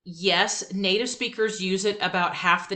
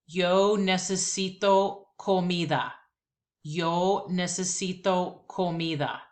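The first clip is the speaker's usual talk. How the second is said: slow repeat-after-me Spanish; slower than usual. Shown as a demonstration. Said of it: "Here we go".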